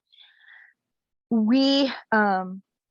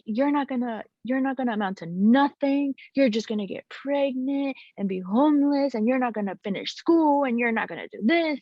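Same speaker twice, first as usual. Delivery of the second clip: retold belittling rant; 5 semitones higher than usual. Retold partner's belittling tirade.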